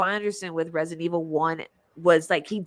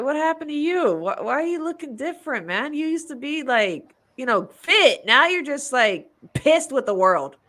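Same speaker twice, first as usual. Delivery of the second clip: mock shocked scolding; 5 semitones higher than usual.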